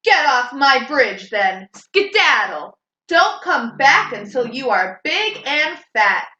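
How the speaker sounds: loud troll ordering him off; gruff troll yelling from the bridge; troll shouting. Acted. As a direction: bark the goat away. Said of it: "So he shouted".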